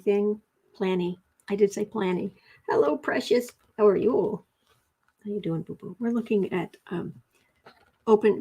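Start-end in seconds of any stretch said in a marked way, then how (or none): 2.7-6.0 cooing to the cat. Real, not acted. Talking sweetly to the cat.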